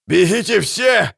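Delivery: громко и тянуще, с рыком; рявкни, чтобы все бежали; рычащий крик. Acted. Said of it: "зарычал солдат". (паническое рычание солдата)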